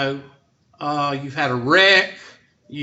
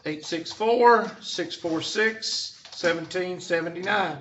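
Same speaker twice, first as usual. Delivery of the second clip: slow dictation; 4 dB quieter than usual. Shown as a demonstration. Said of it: "reads out phone number slowly".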